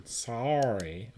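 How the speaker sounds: drawn-out Canadian "Sorry". Shown as a demonstration. Streamer correcting the apology as a Canadian, drawn-out Canadian accent. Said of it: "Wait, I'm Canadian".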